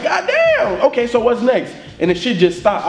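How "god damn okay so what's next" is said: higher, laughing, hyped-up outburst. Retold or imitated. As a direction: relive the rush of the track hitting. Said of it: "I'm like".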